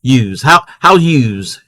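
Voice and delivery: imitating Maryland locals; Maryland accent. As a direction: demonstrate a Maryland accent on yous. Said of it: "How people say".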